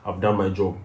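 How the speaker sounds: gloating enemy. Acted. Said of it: "your enemy is so happy".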